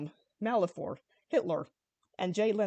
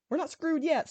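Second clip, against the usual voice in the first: much higher burst of hope; sudden shout; 7 semitones higher than usual. A narrator's reading. Sparks interrupting the despair, sudden shout. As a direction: blurt it out suddenly. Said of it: "Sparks suddenly shouted".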